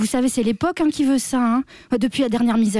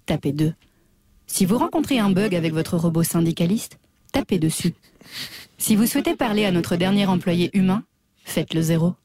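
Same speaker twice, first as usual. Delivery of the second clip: automated hotline voice; 6 semitones lower than usual. Acted. Hotline message greeting jobless callers, low and automated. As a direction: read it like a deadpan answering machine.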